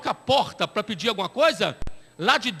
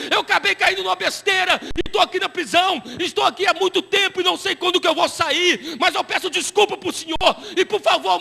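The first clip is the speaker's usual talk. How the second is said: higher, louder pleading confession, a touch tearful; 6 semitones higher, 3 dB louder than usual. Retold or imitated. Prisoner confessing to the pastor, mildly tearful and higher. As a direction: beg him to pray, voice rising with emotion. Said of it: "ele começou a chorar".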